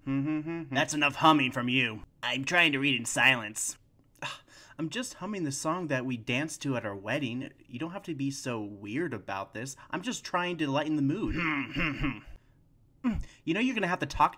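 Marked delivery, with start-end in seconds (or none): 4.8-9.5 soft hushed whisper. Acted. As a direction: whisper it tenderly. Wife whispering to husband.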